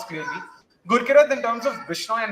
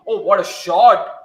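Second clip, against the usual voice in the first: excited; 8 dB louder, much slower than usual. Real, not acted. Live commentary on a big hit.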